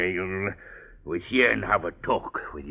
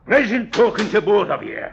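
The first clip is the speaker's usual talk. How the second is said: mock pleasant; 13 semitones higher, 6 dB louder, faster than usual. Leaving, mocking cheer.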